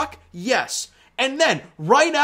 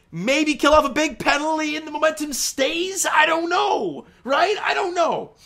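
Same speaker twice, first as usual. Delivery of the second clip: frustrated outburst; 7 semitones higher than usual. Real, not acted. Frustrated rant about momentum.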